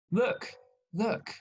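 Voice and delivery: a cartoon donkey yelling at its master; talking donkey. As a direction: play the fed-up donkey telling off its rider. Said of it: "the donkey turns around and says".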